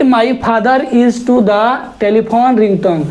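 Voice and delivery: slow, word-by-word reading. Shown as a demonstration. Teacher rereads the exercise sentence slowly for students. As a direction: crawl through the sentence.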